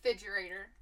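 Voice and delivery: refrigerator said as fidgerator, the first r dropped; imitating her pronunciation. Showing her co-host the host's accent, in a mimicking voice. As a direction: copy how the host says refrigerator. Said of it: "There's no R in the first part of that".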